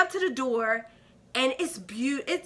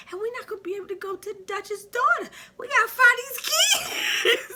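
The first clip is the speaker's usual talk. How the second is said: mock panic; 9 semitones higher than usual. Panicking about missing the date.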